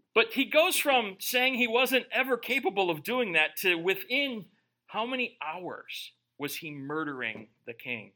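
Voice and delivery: normal talking voice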